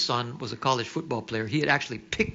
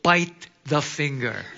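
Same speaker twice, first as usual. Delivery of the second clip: laughing; 4 dB louder, slower than usual. Retold or imitated. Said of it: "what was my body telling me?".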